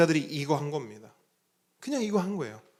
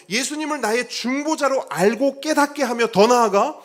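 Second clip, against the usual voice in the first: fervent preaching; 8 semitones higher, 9 dB louder than usual. Acted. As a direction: lean into each phrase like a pulpit climax. Climactic preaching.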